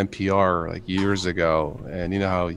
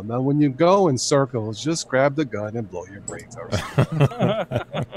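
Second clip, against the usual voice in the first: slow, calm voice through laughter; calm navigation voice, laughing; Morgan Freeman gps voice; 3 semitones higher, slower than usual. Retold or imitated. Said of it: "Morgan saying it 'cause his voice is so calming".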